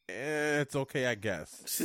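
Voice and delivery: slow, shrugging, half-hearted verdict; a lightly mocked bored meh; mock indifference. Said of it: "that's what every Illumination movie sounds like".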